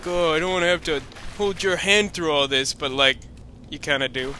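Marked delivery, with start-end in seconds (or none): 0.0-2.7 sarcastic. Retold or imitated. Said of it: "you were sarcastically being like".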